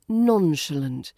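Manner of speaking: slow NON-shuh-lunt, falling away; light RP pronunciation. Shown as a demonstration. Teacher repeating the correct nonchalant for learners, slow and light. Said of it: "It's light and breezy".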